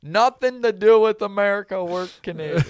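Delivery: loud, high, insistent retort; emphatic denial. Retold or imitated. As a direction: shout them off like it's obvious.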